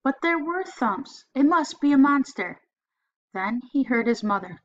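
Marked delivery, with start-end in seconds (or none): 0.0-2.6 higher, louder anxious voice; rising panic; scared. Acted. Boy's fearful thoughts.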